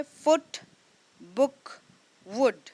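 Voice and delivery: फुट, बुक, वुड with a quick short ऊ; short oo sound. Shown as a demonstration. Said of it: "quick सी sound आई ऊ की".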